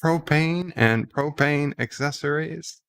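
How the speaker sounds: lightly voiced Texan cartoon character; Hank Hill. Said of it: "This is a Hank Hill accent".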